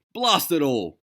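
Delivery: Notley shouting at the crew; shouting as loud as he could. A narrator's reading. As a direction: blast it out in exasperation. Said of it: "he shouted as loud as he could".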